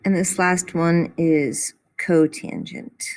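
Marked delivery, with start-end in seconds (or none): 2.0-3.0 cotangent said koh-TAN-junt; drawn-out cotangent with a long o; pronunciation of cotangent. Shown as a demonstration. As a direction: say cotangent slowly and carefully. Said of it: "we say cotangent of theta".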